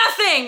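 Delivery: "nothing" drawn out slowly for emphasis; all-caps emphasis. A narrator's reading. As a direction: stretch out "nothing" as if in capitals. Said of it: "in all caps".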